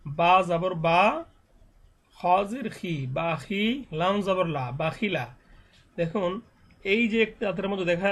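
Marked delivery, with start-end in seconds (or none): 0.1-5.4 slow Arabic spelling drill, vowels held long; teacher's drawn-out syllable drill; spelling drill recitation. Shown as a demonstration. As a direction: recite each syllable measuredly, stretching the final vowel.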